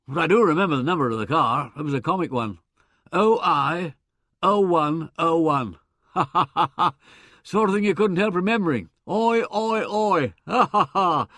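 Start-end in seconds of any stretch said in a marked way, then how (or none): 3.1-11.3 loud, gleeful chortling through the words; laughing at the joke. Acted. Weldon cackling over the funny car number. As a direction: chuckle it out, a bit louder. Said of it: "Yes, it made us both laugh".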